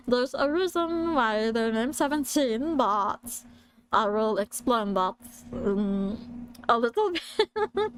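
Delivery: shaky attempt at a British cartoon alien, giggling; British-accented creature voice slipping into laughter; Stitch. Presenter explaining the band name as British Stitch, giggly. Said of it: "I will try to do a Stitch voice".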